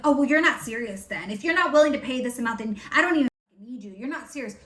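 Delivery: fast, sneering put-down voice; mocking condescension. Mocking coaches who scoff at buyers asking about price, fast and sneering. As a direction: rattle it off like a smug coach brushing you off. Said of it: "They're like".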